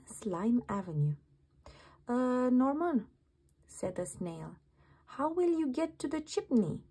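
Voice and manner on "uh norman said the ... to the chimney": lightly raised, puzzled snail voice; a hint of confused little snails. Snail asks worriedly.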